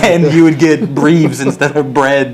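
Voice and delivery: giggling through the words; laughing. Retold or imitated. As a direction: laugh while you tell it. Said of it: "interesting bug with that".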